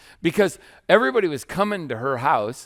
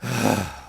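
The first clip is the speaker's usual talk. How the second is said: mock sigh; 3 semitones lower than usual. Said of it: "the gentle, like, sigh".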